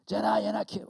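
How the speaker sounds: loud, high parent's call; imitated scolding shout; full-name summons. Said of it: "Usually full name".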